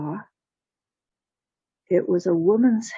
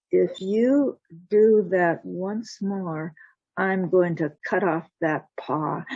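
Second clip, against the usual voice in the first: slow threat; slower than usual. Acted. Jack threatens the cat.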